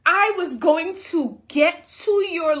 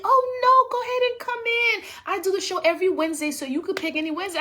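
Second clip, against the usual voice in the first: higher, fast breezy host voice; host's reply; 4 semitones higher, faster than usual. Retold or imitated. Host offering any Wednesday, quick and high. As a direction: toss it off quickly, pitched up. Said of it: "he was like".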